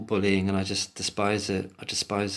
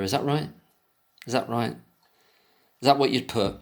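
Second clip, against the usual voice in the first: drip with sarcasm; mock interrogation; sarcastic; 2 semitones higher than usual. Sarcastic questioning.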